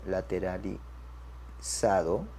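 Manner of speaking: very slow, low and soft, broken into syllables; dictation pace. Shown as a demonstration. Teacher writes the result for students, dictation pace. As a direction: murmur it slowly as if writing.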